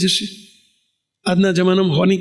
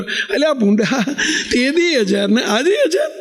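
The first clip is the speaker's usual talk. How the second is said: laughing mockery; 5 semitones higher, slower than usual. Real, not acted. Mocking the devotee's fixed donation.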